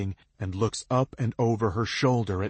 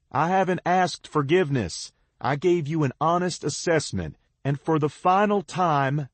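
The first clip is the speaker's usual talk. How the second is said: firm call; 8 semitones higher, 5 dB louder than usual. A narrator's reading. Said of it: "I tell her".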